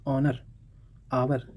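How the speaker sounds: "ऑनर, आवर" starting on vowels; silent H. Shown as a demonstration. Teacher listing silent-letter words, "ऑनर, आवर" without H. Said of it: "एच यहाँ पर चुप है".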